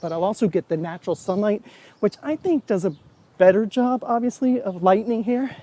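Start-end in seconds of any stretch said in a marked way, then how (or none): 2.0-5.6 winded from running; out of breath. Real, not acted. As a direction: talk while catching breath. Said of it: "Sorry, I'm out of breath".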